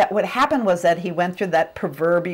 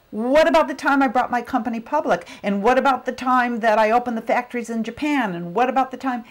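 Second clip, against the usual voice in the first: indignant protest; 5 semitones higher than usual. Retold or imitated. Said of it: "still indignant in heaven".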